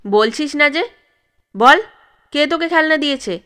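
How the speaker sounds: father scolds his daughter, loud and fast; scolding. Acted. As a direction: bark the question at the frightened child. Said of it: "ধমকে জিজ্ঞেস করে".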